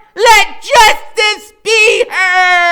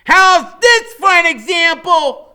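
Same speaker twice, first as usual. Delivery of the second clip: high, loud heroic declaration; booming heroic speech; grand proclamation; 18 dB louder than usual. A narrator's reading. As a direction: announce their legend to the class. Freak proclaims from Max's shoulders.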